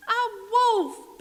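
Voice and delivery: begging for rescue; pleading pig. Acted. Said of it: "Pig cried".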